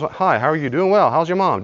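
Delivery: high, bright-voiced small talk at church; chirpy greeting. Churchgoer greeting a friend, chirpy and high. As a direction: rattle off a quick cheerful hello.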